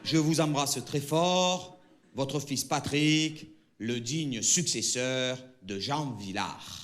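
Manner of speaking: slow, solemn reading; letter sign-off. Acted. Son signs off his letter to father. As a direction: sign off proudly and slowly.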